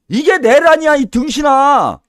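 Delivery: loud, angry outburst, slowing on 등신아; yelling insult at the president; furious shout. Real, not acted. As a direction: bellow it in outrage. Commentator erupts at the president.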